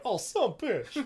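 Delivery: high, far-off grumble from the background; mock John swearing off-mic; imitating John's muttered curse. Co-host imitating John cursing in the background, high mock grumble. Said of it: "you can almost hear John in the background".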